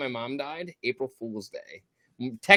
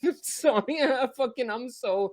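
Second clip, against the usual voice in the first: overcome with emotion; 5 semitones higher than usual. Real, not acted. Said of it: "I'm so emotional the way I am".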